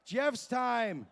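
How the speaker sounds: loud, high live hype calls; hype announcer. Acted. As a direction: shout the action and the times.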